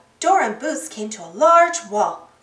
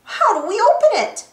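groaning; 7 semitones higher, 5 dB louder than usual. A narrator's reading. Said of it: "he groaned".

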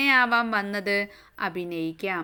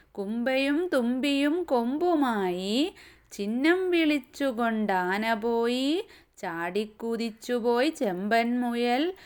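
slow, lilting verse with drawn-out line endings; sing-song nursery verse reading; children's poem recitation; 2 semitones higher than usual. Acted. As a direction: recite rhythmically for small children, stretching each line.

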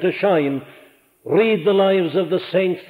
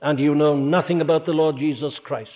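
ordinary talk, nothing marked

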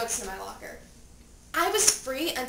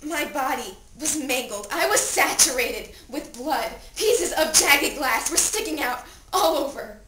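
louder, emphatic horror; horrified account; 6 dB louder than usual. Acted. Dead teen describing the injured body, horrified and loud. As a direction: hit the gruesome details hard.

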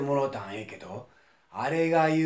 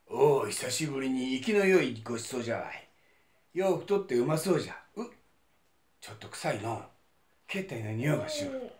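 gloating monster; faster than usual. Acted. Monster relishes its meal.

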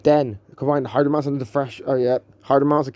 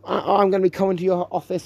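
rising higher, ever more insistent; ranting; 4 semitones higher than usual. Real, not acted. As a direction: build the demand up higher each time. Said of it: "little rant".

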